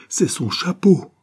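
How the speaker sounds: very high, slow wail; anguished cry. A narrator's reading. Father recognising his son's hat, anguished cry. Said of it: "avec un cri sinistre qui déchirait sa gorge".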